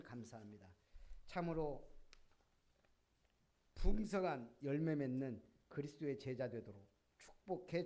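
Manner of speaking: 설교를 맺는 기도조; 문장 끝을 낮춰 가며 드리는 기도; 마무리 기도. Real, not acted. Leads closing prayer. (회중을 대표해 기도하듯)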